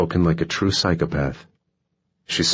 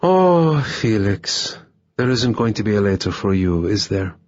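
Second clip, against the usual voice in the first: a hint of sad sympathy, overdone on "Oh"; mock sympathy; 4 semitones higher than usual. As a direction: coo over him with false pity. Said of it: "sympathetic and almost sad".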